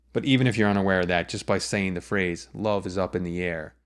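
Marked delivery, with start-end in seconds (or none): 2.5-3.7 light "is" and "in the", beats on "Love", "up", "air"; natural spoken stress. Shown as a demonstration. Songwriting teacher saying the phrase, stressing "Love", "up" and "air". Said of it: "you can hear where those stresses pop out".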